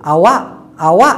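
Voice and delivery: আওয়া with the final k barely touched; soft final k. Shown as a demonstration. Teacher showing Malay আওয়া without a hard k. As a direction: clip the end of আওয়া to a faint stop. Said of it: "কটা উচ্চারণ করতে হবে ছোট করে".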